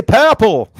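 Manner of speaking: high, loud Scottish "purple"; playful Scottish accent. Pretend. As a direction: say purple like a teasing Scot. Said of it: "Can Scottish people say purple".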